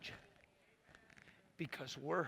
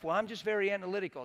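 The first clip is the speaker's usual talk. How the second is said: smug; 4 semitones higher, faster than usual. Retold or imitated. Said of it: "People pride themselves".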